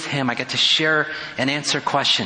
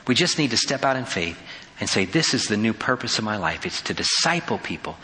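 earnest spoken prayer, settling lower toward the amen; 3 semitones lower than usual. Real, not acted. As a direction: lead the congregation in prayer, addressing God directly. Leads closing prayer.

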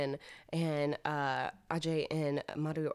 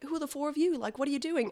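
put-on Australian accent; 9 semitones higher than usual. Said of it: "a pretty bad Australian accent".

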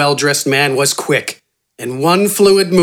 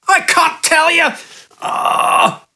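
much higher, whining bandit voice; injured bandit; slower than usual. A narrator's reading. Hurt bandit refusing the giant, high pained whine. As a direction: whimper it out in pain, high and thin. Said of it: "the injured man responded".

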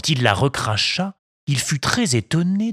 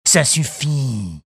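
slow, louder bandit shout; 2 semitones higher, 3 dB louder than usual. Acted. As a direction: bark at the puppet. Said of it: "crièrent en chœur les deux brigands".

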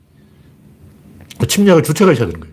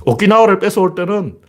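ordinary delivery

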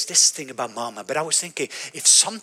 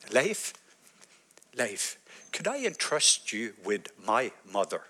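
slow, much softer divine voice; soft whisper; 4 semitones lower, 8 dB quieter, slower than usual. Retold or imitated. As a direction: breathe it slowly like a whisper. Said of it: "whisper of a voice".

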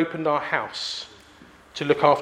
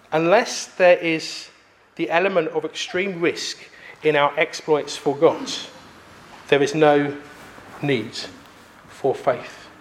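slower, lower, in separated phrases; emphatic repeat; 3 semitones lower than usual. Acted. Preacher repeating a provoking quote to the congregation, slow and emphatic. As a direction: let the quote sink in, pausing between phrases.

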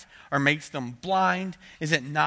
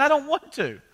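put-on much higher and louder childish whine; whiny kid; 11 semitones higher, 7 dB louder than usual. Pastor imitates kids complaining they can't, loud whine. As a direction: wail it like a stubborn child. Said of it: "They're going".

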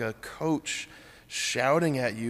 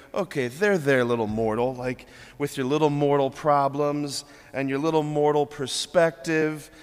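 mock condescending Jesus; 3 dB louder than usual. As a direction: lightly voice a dismissive, talking-down tone. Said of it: "so patronizing, so condescending".

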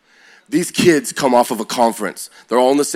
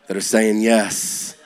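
slow emphasis; 2 semitones lower, much slower than usual. Real, not acted. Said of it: "slow emphatic repeat".

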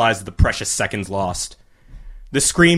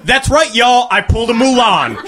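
much higher, louder victory shout; triumphant yell into the mic; 9 semitones higher, 4 dB louder than usual. A narrator's reading. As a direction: crow it to the whole crowd. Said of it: "she yelled into the mic".

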